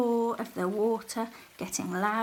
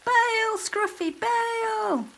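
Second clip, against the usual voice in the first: high, loud urgent shout; shouted order; 12 semitones higher, 5 dB louder, much slower than usual. A narrator's reading. Soggy ordering Scruffy to bail, high loud shout. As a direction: bark the order over the waves. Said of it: "shouted Soggy".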